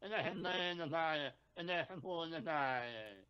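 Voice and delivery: lilting fake Italian accent; mock Italian accent. Shown as a demonstration. Co-host asked to show his Italian, mock Italian accent. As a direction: improvise lightly faked Italian patter. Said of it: "Let me hear your Italian".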